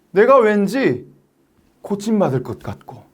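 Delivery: ordinary talk, nothing marked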